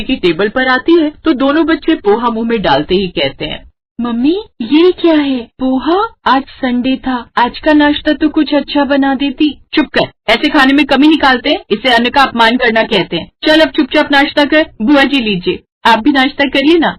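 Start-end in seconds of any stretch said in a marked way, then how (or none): 4.0-9.5 put-on higher, complaining kid voice; whiny child. Children complain to mother about plain poha, whiny. 9.7-16.9 scolding mother. Acted. Mother scolds children then offers aunt breakfast, scolding.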